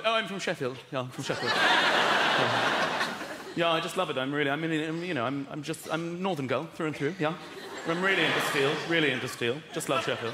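put-on affected London accent on a Northerner; lost Northern accent. Northerner claiming Sheffield roots, affected London accent. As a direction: gush in an adopted London accent. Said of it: "they lose their accent really quickly".

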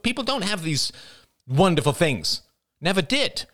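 put-on high, nasal young woman's voice building; Jada, nasal and rising. A narrator's reading. Jada objecting to the family's self-praise, high nasal voice. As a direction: let the voice climb as she objects. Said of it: "Her nasal voice rose".

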